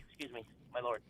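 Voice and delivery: a hint of a medieval servant; mock olde english. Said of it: "you substitute a different medieval voice for that".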